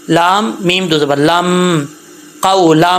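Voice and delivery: قولم said with the ل merged into م; merging lam into mim. Shown as a demonstration. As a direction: join the ل straight into the م. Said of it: "جب لام کو میم سے ملائیں گے".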